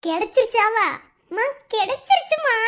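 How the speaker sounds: high, loud burst of excitement; thrilled good news, pitch climbing; excited. Acted. Daughter tells mother she got the job, excitedly.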